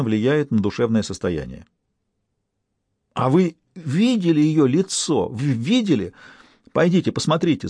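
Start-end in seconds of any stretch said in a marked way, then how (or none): 3.1-5.3 drawn-out, higher wail of horror. A narrator's reading. Stas to the detective about the corpse, wailing. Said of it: "завопил Стас". 5.3-7.7 a mild, urgent wail pressing the point. A narrator's reading. Stas urging the detective to look, mild wail. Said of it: "завопил Стас".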